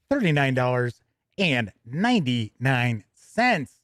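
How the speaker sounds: upbeat, brisk product-news read; a bright announcer reading the release. Acted. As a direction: present it like a news anchor. Reads the product news item.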